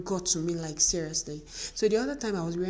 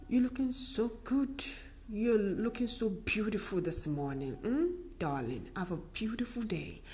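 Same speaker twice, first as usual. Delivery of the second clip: sweet, tender words to her own reflection; mirror pep talk; 3 semitones higher, 3 dB quieter than usual. Retold or imitated. Speaking to her mirror each morning, tender and admiring. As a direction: coo at herself in the mirror. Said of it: "I look at her and I say".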